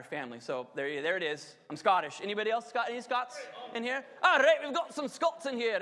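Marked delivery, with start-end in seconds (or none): 4.2-5.8 higher, louder rallying call; excited cheer. Real, not acted. Preacher cheering the Scots in the congregation, loud and high. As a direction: hype up the Scots in the room.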